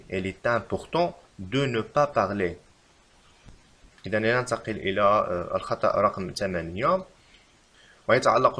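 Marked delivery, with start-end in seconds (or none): 0.1-2.6 slow, even reread; slow repeat. Shown as a demonstration. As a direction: say it slowly again in one go. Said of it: "فالتصحيح لهذه الجملة يجب كتابة".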